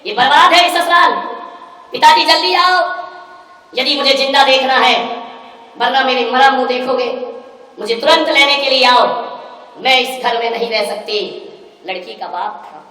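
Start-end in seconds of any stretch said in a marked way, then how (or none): 0.1-11.2 frantic demand. Retold or imitated. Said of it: "वो ये कह रही है कि".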